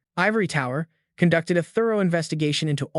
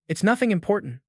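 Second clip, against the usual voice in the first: higher, flustered exclamation; flustered outburst; 4 semitones higher than usual. Acted. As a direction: blurt it out flustered. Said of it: "said loudly".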